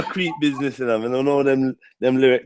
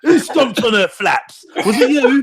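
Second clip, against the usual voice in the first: mock angry dad; 7 semitones higher, slower than usual.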